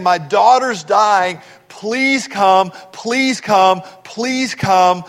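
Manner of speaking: mild, repeated plea; retold pleading. Jairus begging Jesus to come to his daughter, mild retold pleading. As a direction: act out a father's urgent begging, lightly. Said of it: "so he's pleading with him".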